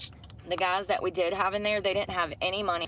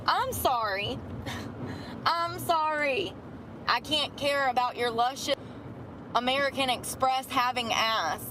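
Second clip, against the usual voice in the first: mock tearful apology; 3 semitones higher than usual. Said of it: "busted out crying".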